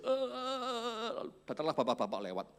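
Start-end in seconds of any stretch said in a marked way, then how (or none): 0.0-1.3 high soft mock sobbing "eh"; mock child sobbing. Child crying by the river, mock sobbing. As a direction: whimper like a child. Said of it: "Nangis dia".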